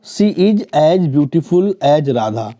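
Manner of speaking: she is as beautiful as Radha drawn out very slowly; teacher slowly repeating the example to point at as. Shown as a demonstration. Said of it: "देखिए as".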